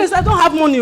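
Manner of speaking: loud, fed-up refusal; exasperated shout. Acted. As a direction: snap back at the pestering sister. Sister shouting at begging Grace.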